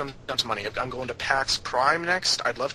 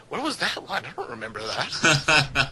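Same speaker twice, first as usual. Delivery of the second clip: laughing; 2 semitones higher than usual. Retold or imitated. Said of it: "And I'm like".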